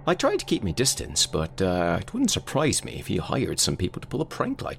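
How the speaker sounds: lightly voiced Father Henry; dismissive priest. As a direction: brush it off like a priest who finds it silly. Voicing Father Henry dismissing Carl.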